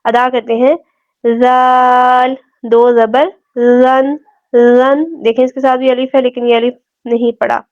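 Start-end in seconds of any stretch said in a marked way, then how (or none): 1.2-5.0 زال drawn long, soft th as in "this"; soft dhal. Shown as a demonstration. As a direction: say زن gently with no whistle, tongue tip out. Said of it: "نرمی سے ادا کیے جائیں گے". (زال نرمی سے، سیٹی کے بغیر)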